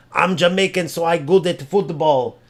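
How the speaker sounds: lightly put-on dumb boast; mock idiot voice. Streamer parroting the Jamaican football boast, mildly mocking idiot voice. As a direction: mimic a rival as a bit of an idiot. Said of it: "Sound like an idiot".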